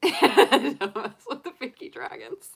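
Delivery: high, loud laughing warning. Real, not acted. Joking with viewers about the Pinky Dragons, laughing. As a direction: say it slowly through giggles.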